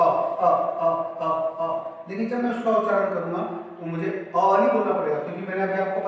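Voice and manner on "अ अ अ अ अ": short, separate अ sounds; short vowel. Shown as a demonstration. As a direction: say अ briefly, each one cut off. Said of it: "जब इसका उच्चारण करूँगा तो बोलूँगा". (छोटा, ह्रस्व अ)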